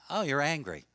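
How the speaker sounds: soft and even, quietly acknowledging; name the feeling gently; calm validation. Retold or imitated. Therapist calmly validating an angry older man. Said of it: "I just say something very simple".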